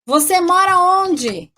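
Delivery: slow example. Shown as a demonstration. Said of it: "por exemplo".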